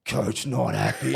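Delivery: drawn-out, slow mock fury; coach's slow exploding verdict; imitated coach outburst. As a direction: let the punchline boom slowly. Coach's outburst, punchline of story.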